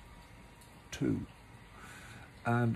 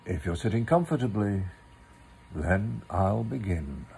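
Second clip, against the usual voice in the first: classic cosy storyteller opening; story opening; 2 semitones lower than usual. A narrator's reading. Reading to children, opening the story gently. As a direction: invite the children in to listen.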